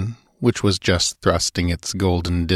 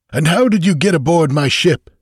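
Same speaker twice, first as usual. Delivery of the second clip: raised, louder, suspicious questioning; 9 semitones higher, 5 dB louder than usual. A narrator's reading. Master questions the stranger who boarded his ship, suspiciously. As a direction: demand it with open suspicion. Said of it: "The voice grated with suspicion".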